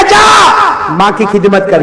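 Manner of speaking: loud, slow, emphatic order; insistent command. Retold or imitated. Prophet's repeated command, loud take. (زور دے کر بلند اور آہستہ حکم)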